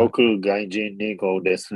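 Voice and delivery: stuffy blocked-nose voice; nasal voice. Shown as a demonstration. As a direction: talk like your nose is blocked. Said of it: "みたいな".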